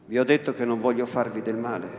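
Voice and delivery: softened voice. Acted. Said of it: "rispose con voce mitigata".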